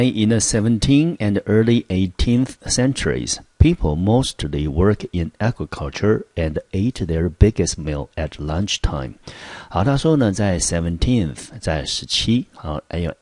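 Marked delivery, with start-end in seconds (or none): 0.0-9.1 clear, measured textbook reading; reading the text aloud. Shown as a demonstration. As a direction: read the passage out for the class. Reads the English text aloud. (朗读课文)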